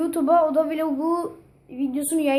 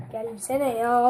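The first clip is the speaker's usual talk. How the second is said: annoyed; much slower than usual. Real, not acted. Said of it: "sinir oluyorum ya".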